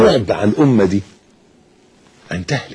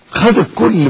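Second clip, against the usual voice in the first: higher, louder repeat of خد الكل; emphatic repeat; 10 semitones higher, 4 dB louder, slower than usual. Real, not acted. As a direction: hit خد harder the second time. Repeated for emphasis, second take.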